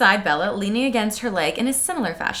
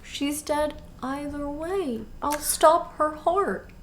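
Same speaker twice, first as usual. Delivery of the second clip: mock grim Edward; 3 semitones higher, 8 dB quieter, slower than usual. Edward's grim quote retold.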